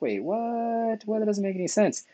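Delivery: confused student. Retold or imitated. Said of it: "students are like".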